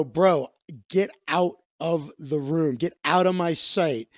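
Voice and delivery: controlled, understated menace; restrained retold anger; retold aggression. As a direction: order him out without raising your voice. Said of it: "start getting aggressive".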